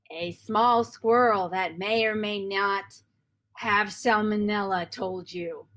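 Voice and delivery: slow, measured storytelling; understated mysterious narration; game master narration. Acted. Dungeon master reveals a squirrel told you, slow narration.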